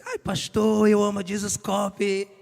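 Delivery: high, gushing fan voice of a church lady; imitating a church sister. Pastor retells a sister gushing to him. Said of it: "veio uma irmã pra mim e falou assim".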